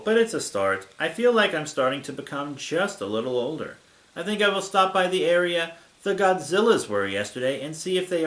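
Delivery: deliberate, slightly hammed-up diary reading; story narration. A narrator's reading. Reader narrates a monster girl's diary, story narration. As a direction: read it out with exaggerated, storybook phrasing. Reads fan fiction aloud.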